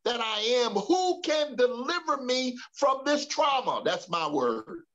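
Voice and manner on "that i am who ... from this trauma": mildly frustrated lament, drawn out at the end; preacher voicing a frustrated man. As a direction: cry out in exasperation, acting out a desperate plea. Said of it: "he became so frustrated that he said".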